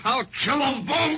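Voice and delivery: slow, loud, enraged shout of a threat; a man losing control, shouting that he'll kill them both; furious shout. Acted. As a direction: roar it out as he lunges at her. Enraged suspect lunges at her.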